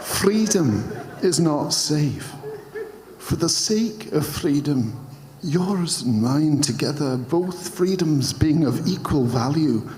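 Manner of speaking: bad, wobbly Scottish accent attempt. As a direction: try a Scottish accent and keep slipping. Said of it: "try and do this in a Scottish accent".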